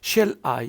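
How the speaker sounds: "Shall I" as one foot with the weight on "I"; stress on I. Shown as a demonstration. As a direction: lean on "I" after a lighter "Shall". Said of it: "you will give stress to I".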